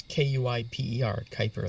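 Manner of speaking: Kuiper spelled letter by letter, then said whole; pronunciation demo. Shown as a demonstration. Speaker confirms the belt's name to co-host, demonstrating pronunciation. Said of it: "that's how it's pronounced".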